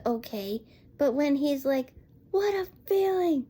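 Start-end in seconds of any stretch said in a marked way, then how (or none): 2.3-3.5 a hint of forced cheer, pitched up; lightly voiced Stoic faking delight; mock fake enthusiasm. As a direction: imitate a dad faking being happy. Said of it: "it sounds like he's faking being happy".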